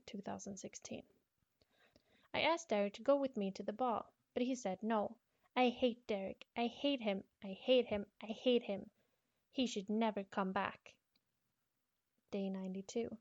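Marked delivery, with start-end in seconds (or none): 2.3-10.9 put-on angry girl. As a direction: spit out the hate, loud and hurt. Diary girl's angry entry.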